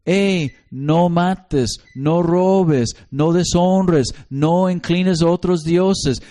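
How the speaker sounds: slow, deliberate parent laying down the rules; teaching parent. Acted. Parent teaching small children the commandments, slow and firm. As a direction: spell out each rule slowly to a small child. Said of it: "poniendo esto".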